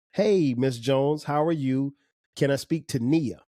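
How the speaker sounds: slow, courteous caller voice, lightly done; a hint of a well-mannered boy on the phone; polite phone greeting. Shown as a demonstration. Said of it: "Like that".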